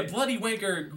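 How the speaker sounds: put-on a rough, playful Cockney accent; almost Cockney accent. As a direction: echo it in a half-Cockney accent. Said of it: "almost Cockney accent".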